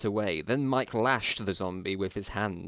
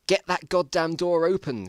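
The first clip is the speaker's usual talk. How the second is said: raised, loud urgent order; shouted; 7 semitones higher, 5 dB louder than usual. Acted. Mike yells at Paul to open the door. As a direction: bark it at Paul. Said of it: "shouted Mike".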